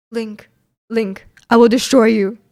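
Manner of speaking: half-serious villain threat; lightly voiced menacing game villain; Ganondorf. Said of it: "Can I have a Ganondorf line?".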